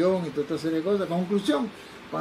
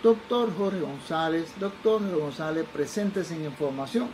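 slow, drawn-out public announcement; airport paging announcement; slower than usual. Retold or imitated. Airport paging a doctor on arrival, measured announcement. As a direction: page a passenger, syllables stretched out. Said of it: "dicen por el lado del aeropuerto".

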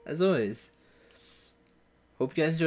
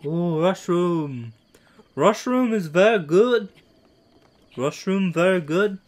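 mock Asian accent. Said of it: "as if I'm Asian".

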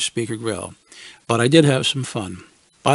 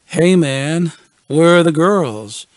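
cooing; 3 semitones higher, 6 dB louder, slower than usual. Retold or imitated. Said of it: "he cooed with an edgy, wicked smile".

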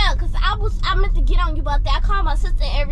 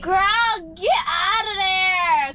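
urgent shout; 3 semitones higher, much slower than usual. Real, not acted. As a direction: yell at a friend to get out now. Urging friend to leave.

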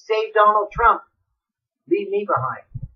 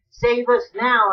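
slow pleading call; 4 semitones higher, 4 dB louder, much slower than usual. Acted. Crowd pleads again.

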